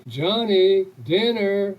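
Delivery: loud call across the yard; mother calling her kid in for dinner. Retold or imitated. Mother at the door calling her son to dinner, loud call.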